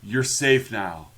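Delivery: slow, fading mock deathbed voice; dying last words. Dying captain reassuring the children, slow mock last words. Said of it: "just enough energy to".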